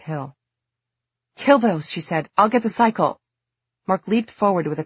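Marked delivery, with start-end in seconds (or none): 1.4-1.9 loud, sharp battle order; urgent command. Acted. 2.4-3.2 loud, sharp battle order; urgent command. Acted.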